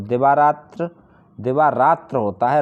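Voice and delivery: दिवारात्र ending in plain त्र, no इ sound; correct spelling stressed. Shown as a demonstration. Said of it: "रात्रि नहीं". (दिवारात्र साफ़ उच्चारण)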